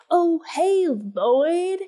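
hammed-up, high-swooping greeting; over-the-top Jack Nicholson. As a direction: overact it, pitching the greeting up. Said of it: "he's way over the top acting".

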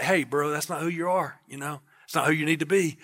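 a mild hushed nudge, like a friend leaning in; God quietly correcting you, softly; soft whisper. Pretend. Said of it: "He just kinda just whispers in your heart".

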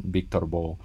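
usual speaking voice

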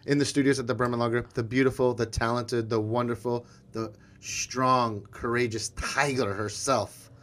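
measured build to the guest's name; show sign-off announcer. Acted. Host closes show honouring guest, grand announcer sign-off. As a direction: announce the star, stretching the final words.

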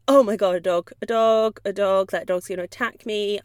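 a nervous dog blurting in alarm; scared dog voice. Pretend. Fearful dog seeing another dog, mild mock panic. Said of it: "they might go".

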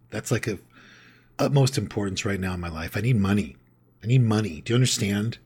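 a loud, fast start that settles into venting; a modern guy begging his sponsor for money; freaked-out Bill. Retold or imitated. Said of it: "and he'd say".

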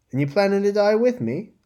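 high, loud and curt question. Acted. Lyria cutting her friend short about dying together, curt. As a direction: cut her off sharply.

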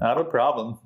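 monotone robot voice; flat robotic delivery. Pretend. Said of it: "You have to do the robot voice".

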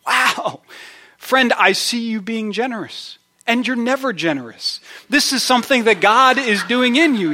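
high-pitched, amazed delight; excited encouragement. Acted. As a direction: gush to a friend as if witnessing a wonder. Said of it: "with all the excitement you can muster".

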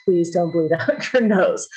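pleading while breaking into a laugh; laughing plea. Retold or imitated. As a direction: beg the dog with a laugh in the words.

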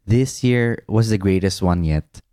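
measured, mildly dramatic read; dramatic letter reading. Acted. Husband reading his old love letter to his wife, mildly dramatic. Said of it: "like, a dramatic voice?".

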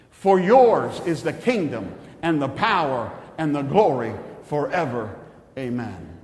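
solemn, measured prayer recitation. Acted. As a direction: pray it like you mean it. Leads the Lord's Prayer.

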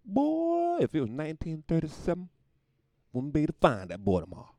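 mock old Southern racist. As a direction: threaten like a Jim Crow sheriff. Voicing a 1937 racist.

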